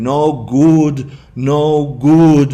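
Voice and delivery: loud, high scolding; scolding teacher. Retold or imitated. Teacher scolding the boy in the hallway, loud and high. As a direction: wag a finger and scold him loudly. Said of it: "her finger in my face going".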